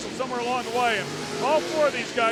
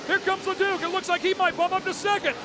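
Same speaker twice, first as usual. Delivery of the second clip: excited; 5 semitones higher than usual. Real, not acted. Live race finish call.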